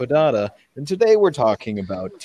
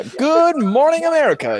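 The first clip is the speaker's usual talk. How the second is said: a laughing, higher "good morning, America"; laughing TV host; 13 semitones higher, 6 dB louder than usual. Acted. Host greeting America through a laugh. Third take of the opener.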